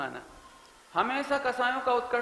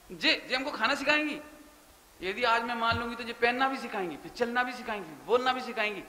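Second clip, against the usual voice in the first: resentful inner voice; 2 semitones higher than usual. Retold or imitated. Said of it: "ऐसे सोचते हैं".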